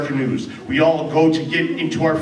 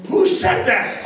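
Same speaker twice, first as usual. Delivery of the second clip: high, alarmed question; startled call; 7 semitones higher, slower than usual. Acted. Woken Anna calls out to the voice, startled. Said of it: "Alec calls out".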